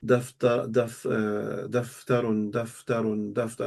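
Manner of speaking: soft, low rote repetition; murmured memorizing, evenly repeated; repetition drill. Shown as a demonstration. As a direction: drill the word quietly in a level rhythm. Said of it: "I say it five times".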